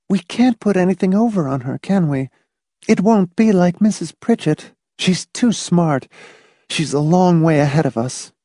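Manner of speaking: high-pitched, worried woman's voice; worried wife. Acted. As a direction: admit defeat to him, voice high.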